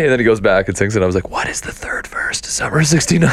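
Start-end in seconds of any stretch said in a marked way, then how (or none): 1.3-3.3 high, flustered protest; comic rising alarm; mock panic. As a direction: act out realising you don't know the words. Retold panic about unknown verse.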